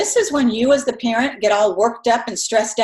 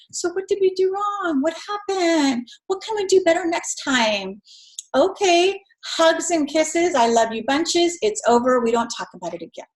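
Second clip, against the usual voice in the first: calm parent talk; 6 semitones higher than usual. Shown as a demonstration. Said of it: "I would get on my knee at eye level and I would say".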